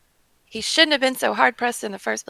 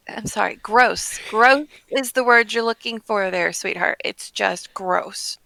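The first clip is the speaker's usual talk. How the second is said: lightly acted disgust, slow on each "gross"; mildly condescending rebuke; disgusted adventurer; 5 dB louder, slower than usual. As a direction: drag out the disapproval. Reads disgusted character's rebuke.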